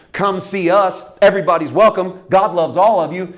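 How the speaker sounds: loud, high hammed-up welcome; mock church sign welcome. Voicing the church sign's cheery welcome. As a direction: oversell the invitation.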